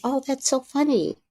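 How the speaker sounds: high, put-on amused reply; falsely amused retort, retold; feigned amusement. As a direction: pitch it up in mock amusement.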